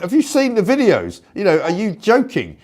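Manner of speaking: high, incredulous challenge; incredulous retort. Retold or imitated. Host retells reaction to radio guest, incredulous. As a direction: throw back a disbelieving question. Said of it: "And I'm like".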